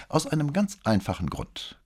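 high-pitched, annoyed comeback; indignant. A narrator's reading. Boy replying about his father's retirement, indignant. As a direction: answer back with impatience. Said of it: "gab der Junge ungehalten zurück".

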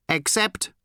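high, loud, odd alien drone. Acted. Aliens to Tricia, high odd voice. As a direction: speak as a strange eager alien.

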